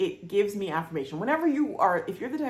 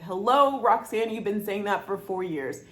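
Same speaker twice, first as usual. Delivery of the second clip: emphatic retold hello; 3 semitones higher, 5 dB louder than usual. Friend quoting her, teasing Hello. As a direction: stretch the Hello out loud. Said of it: "and she said".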